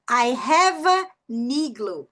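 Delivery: very slow "hava... nigloo"; linked N. Shown as a demonstration. Teacher demonstrating the linking rule, slow and linked. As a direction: split "an" in half, N starting "igloo", drawn out. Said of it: "eu vou conectar o N com a vogal".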